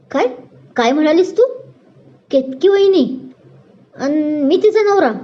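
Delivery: can't believe what he just heard; shocked. Acted. Brother shocked at the teasing. (धक्का बसून विचारणे)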